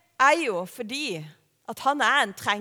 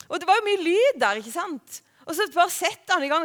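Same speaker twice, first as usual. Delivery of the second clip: ordinary talk, nothing marked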